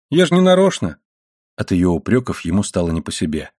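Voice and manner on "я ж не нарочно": high-pitched plea of innocence; higher voice, hurt self-defence; protesting boy. A narrator's reading. William excusing himself to his mother, protesting.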